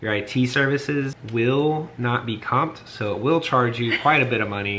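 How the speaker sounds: measured mock-corporate delivery; mock IT announcement. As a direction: play the billing department, tongue in cheek. Jokes as paid IT service.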